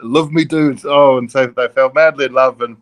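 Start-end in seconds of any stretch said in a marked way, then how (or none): 0.0-0.7 lightly put-on Liverpool accent; a hint of fake Scouse, quoting dad; imitated Liverpool accent. Son retells dad wooing mum as a Beatle, mock Liverpool accent. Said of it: "he put on a Liverpool accent".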